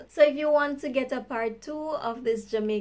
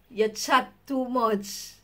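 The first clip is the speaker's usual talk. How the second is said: slow scold; slower than usual. Retold or imitated. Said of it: "I hear this one a lot".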